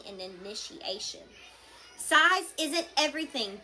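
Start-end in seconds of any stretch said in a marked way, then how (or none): 2.0-3.6 loud, high booming chief's voice. A narrator's reading. Chief Stoik booms to the crowd. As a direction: boom it out to the whole crowd. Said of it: "boomed Stoik".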